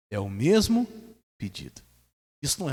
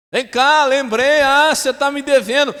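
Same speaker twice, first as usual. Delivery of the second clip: higher, louder grabbing voice; mock harsh creditor; 13 semitones higher, 14 dB louder than usual. Servant demanding payment from his fellow servant, harsh. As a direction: bark it like a man seizing a throat.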